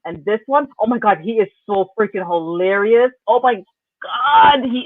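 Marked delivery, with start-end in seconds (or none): 3.3-4.8 slow, drawn-out delighted cry; excited squeal. Real, not acted. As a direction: gush with delight. Gushing about a funny castmate.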